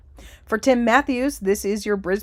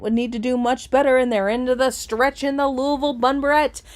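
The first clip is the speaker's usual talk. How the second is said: steady race-caller chant on one note; live race call; 2 semitones higher, 3 dB louder than usual. Acted. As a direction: call the runners in a driving, even stream. Calls a horse race live.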